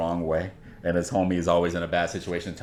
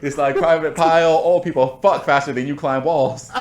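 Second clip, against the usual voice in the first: drill sergeant; 5 semitones higher than usual. Retold or imitated. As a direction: bark like a drill sergeant at a recruit. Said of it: "All from Full Metal Jacket".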